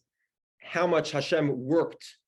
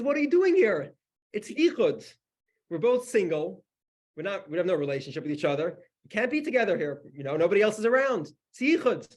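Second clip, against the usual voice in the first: high, loud indignant protest; storyteller's hammed-up outraged yell; retold yelling; 7 semitones higher, 4 dB louder than usual. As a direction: imitate a man scolding in alarm. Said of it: "the guy starts yelling at me".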